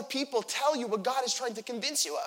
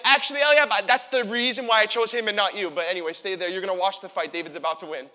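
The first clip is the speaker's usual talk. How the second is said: God's voice; 8 dB louder, faster than usual. Acted. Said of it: "He's like".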